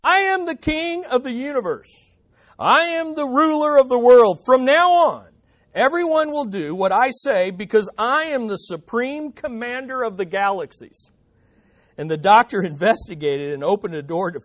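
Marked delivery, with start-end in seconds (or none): 0.0-1.9 high, loud deluded proclamation; high-pitched shout from a locked cell; shouting madman. Acted. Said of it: "he heard shouting". 2.6-11.1 high, very loud grandiose proclamation; full-voiced raving, easing slightly at the end; shouting madman. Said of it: "he heard shouting".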